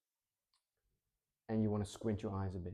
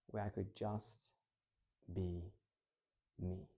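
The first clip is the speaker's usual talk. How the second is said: low pained realization. Shown as a demonstration. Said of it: "a deeper voice".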